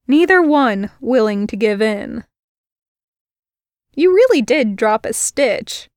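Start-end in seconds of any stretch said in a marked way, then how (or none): 3.9-5.9 conversational. Acted. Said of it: "she said conversationally".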